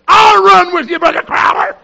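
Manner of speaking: loud, high, cracking cry; high tearful shout. Retold or imitated. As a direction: push it out near tears. Embarrassed wife offers to run.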